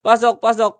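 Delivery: high, insistent chain of repeats; excited, relentless gamer callout; urgent entry call. Real, not acted. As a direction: urge everyone in on one high pitch. Urging team to get inside.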